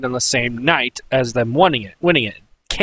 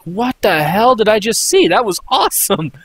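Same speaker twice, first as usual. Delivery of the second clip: higher, incredulous outburst; amazed reaction; 5 semitones higher than usual. Retold or imitated. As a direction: blurt it out in stunned delight. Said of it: "it just, like".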